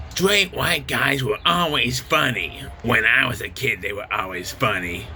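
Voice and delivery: lightly voiced impersonation of a talk-show host; Whoopi Goldberg. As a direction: read it out in a slightly put-on voice. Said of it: "This is Whoopi Goldberg again".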